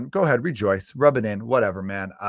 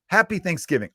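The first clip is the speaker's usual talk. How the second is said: higher-pitched, simple friendly greeting; lightly chirped holiday wish; nice holiday greeting; 6 semitones higher than usual. Acted. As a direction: imitate a nice little well-wishing post. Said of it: "nice little tweet".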